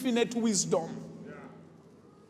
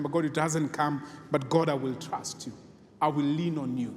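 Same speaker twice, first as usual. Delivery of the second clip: prayer-like declarations. Acted. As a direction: pray it out with earnest trust. Praying trust declarations.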